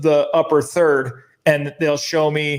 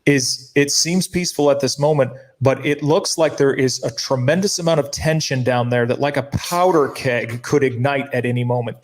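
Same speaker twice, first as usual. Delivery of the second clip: mock reporter. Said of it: "And they said".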